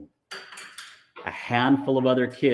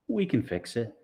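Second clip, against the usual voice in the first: reassuring; 3 dB quieter than usual. Acted. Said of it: "The way he said it, she believed".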